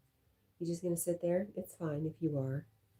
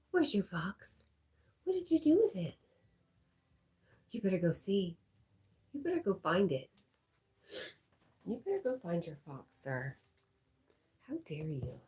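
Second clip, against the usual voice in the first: mock scolding; 3 semitones higher than usual.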